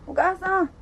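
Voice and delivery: flustered heroine greeting her date; apologetic greeting. Acted. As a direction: hurry up and apologise sweetly.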